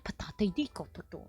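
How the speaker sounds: rapid improvised nonsense syllables; light language. Shown as a demonstration. Demonstrating light language to viewers, improvised babble. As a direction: babble as if channelling. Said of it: "do some light language".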